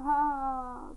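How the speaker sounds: badly faked sob like a laugh; half-joking cry that comes out laughlike; mock crying. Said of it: "that sounded like a laugh".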